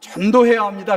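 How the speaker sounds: 전도해야 firmly punched out, loud.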